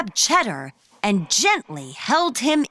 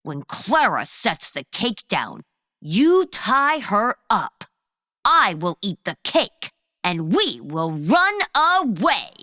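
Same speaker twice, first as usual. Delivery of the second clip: scheming villain. Acted. Cheddar voice giving orders.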